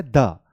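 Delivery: "द" with a short neutral schwa; "द" as the weak form before consonants; article said "duh". Shown as a demonstration. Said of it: "ये sound होता है".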